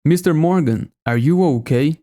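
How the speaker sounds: Mister Morgan, are you okay, with American R and a rise on okay; American accent. Shown as a demonstration. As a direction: imitate the character's line in American English. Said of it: "O auxiliar antes do sujeito". (imitação em sotaque americano)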